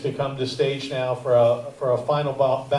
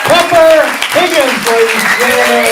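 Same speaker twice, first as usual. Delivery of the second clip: loud, higher announcer calls, names stretched out; stage announcer; 11 semitones higher, 10 dB louder than usual. Acted. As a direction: boom each name out to the room like an emcee. Host announces comics to stage.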